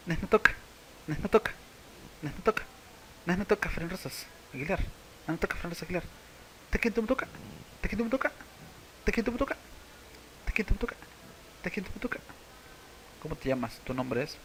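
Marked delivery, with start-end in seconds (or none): 0.1-6.0 higher, rising Nes me toca; variant introduction. Shown as a demonstration. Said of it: "La otra manera sería". 6.7-12.2 much higher Tequentumtoca, each rising; drill word. Shown as a demonstration. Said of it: "La otra manera".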